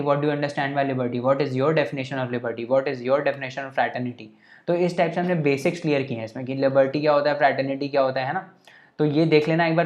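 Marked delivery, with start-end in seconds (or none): 0.0-4.3 slow, deliberate examiner reading each question; mock exam question. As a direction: read it out slowly like a formal exam paper. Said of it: "पूछ लेता है ना ऐसे कि".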